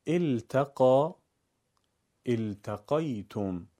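slow التقا، التقیتم begun on "i"; careful i-onset on التقا، التقیتم; read with kasra. Shown as a demonstration. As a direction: say "iltaqa, iltaqaytum" deliberately.

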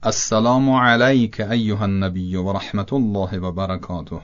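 علیک with a fatha lam, la not le; proper Arabic recitation; correct Arabic. Shown as a demonstration. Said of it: "درستش در عربی اینه که لام با فتحه".

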